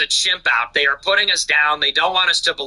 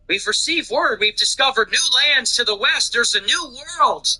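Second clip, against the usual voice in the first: higher, hammed-up herald announcing news; mock town crier; 6 semitones higher than usual. Herald announcing to villagers, higher and hammed-up. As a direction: play a village herald announcing a new world. Villagers in 16th century Italy.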